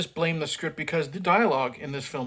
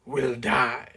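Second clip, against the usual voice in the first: louder, hammed-up villain threat; mock menacing line; 3 semitones lower, 7 dB louder, slower than usual. Reviewer mocking the actress's menacing line, loud and hammy. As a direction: ham up a cheesy threat. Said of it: "they're trying to be intense and menacing".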